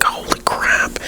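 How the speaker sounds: unvoiced whispered holy crap; whispered dismay. Vlogger recalling her messy desk, whispered frustration. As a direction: breathe it out under your breath.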